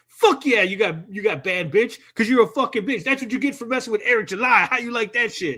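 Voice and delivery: hammed-up victory taunt; mock gloating. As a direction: crow over a rival in an imagined comeback. Imagined gloating over banning someone.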